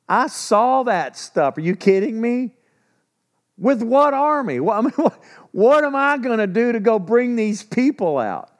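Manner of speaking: are you kidding me, pleading with God; incredulous protest. Retold or imitated. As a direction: Moses balking at the call, exclaiming in disbelief.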